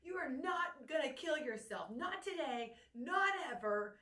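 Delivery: furious sister laying down the law; retold berating. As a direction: scold him hard, no sympathy. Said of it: "And I just berated you".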